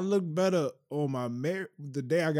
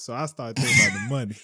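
louder, leaning into the mic; repeated closer to mic; 6 dB louder than usual. Shown as a demonstration. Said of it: "And lean into the mic for me".

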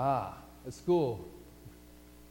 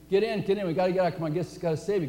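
lightly acted urgent rescue call; urgent policeman; 3 semitones higher, faster than usual. Policeman urges man off his porch before the flood, urgent. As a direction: hurry them in, higher at first.

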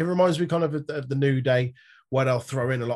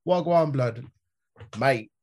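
mock East London grime; slower than usual. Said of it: "like, East London grime".

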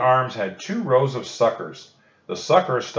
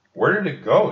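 much higher, louder worried ask; anxious question; 8 semitones higher, 5 dB louder than usual. A narrator's reading. Annie looking for the shark, higher and louder. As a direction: search the water nervously.

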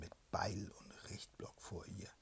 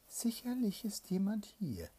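sudden higher, louder cry; alarmed princess; 12 semitones higher, 9 dB louder than usual. Acted. Princess waking up and sensing an intruder, sharp cry. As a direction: burst out of the whisper suddenly.

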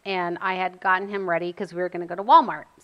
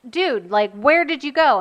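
relieved calling out; 5 semitones higher, 4 dB louder than usual. Retold or imitated. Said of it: "and I was like".

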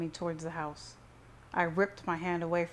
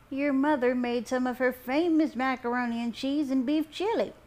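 high, loud grandma voice; grandma piping up; 7 semitones higher, 6 dB louder than usual. A narrator's reading. Grandma offers food to her grandson, piping up. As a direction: pipe up high and eager as a grandma. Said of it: "my Grandma Trudy piped up next".

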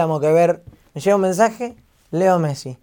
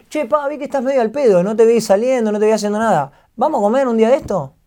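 higher, lightly voiced footballer friend; pitched-up casual invite, imitating a mate; Kun's friendly invitation; 5 semitones higher than usual. Footballer invites streamer out to eat, imitated friendly invitation. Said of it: "me habla el Kun y me dice".

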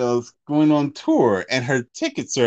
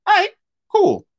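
put-on fed-up boyfriend; 4 semitones higher, 3 dB louder than usual.

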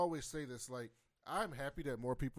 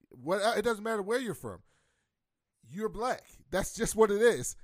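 higher, louder insistence; fired-up emphatic declaration; insistent; 6 semitones higher, 7 dB louder than usual. Real, not acted. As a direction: press it home, almost shouting. Insisting you're Black.

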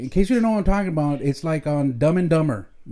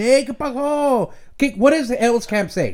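higher, slow tough-guy Edgar greeting; Mexicano Edgar voice; 7 semitones higher than usual. Retold or imitated. Father imitating a hardcore Mexicano Edgar, slow put-on homie voice. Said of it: "que me dice".

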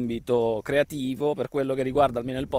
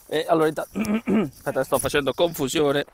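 muffled behind a face mask; talking with a mask on; through a face mask. Real, not acted. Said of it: "con la mascherina". (voce attutita dalla mascherina)

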